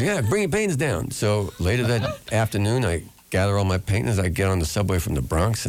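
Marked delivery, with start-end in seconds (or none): 0.0-1.1 imitating a singer. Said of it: "He says".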